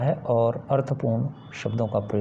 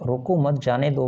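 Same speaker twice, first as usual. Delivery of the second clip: रोको मत जाने दो run together as one phrase; no pause. Shown as a demonstration. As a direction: say रोको मत जाने दो straight through, no break after रोको or मत. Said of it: "वाला जो कंप्लीट वर्ड है".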